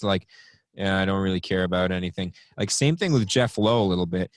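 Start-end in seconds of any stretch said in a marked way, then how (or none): 0.7-2.3 lower, quick, mildly indifferent tone; Aaron Rodgers. Retold or imitated. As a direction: lightly imitate someone who couldn't care less. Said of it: "Aaron Rodgers has that tone in his voice".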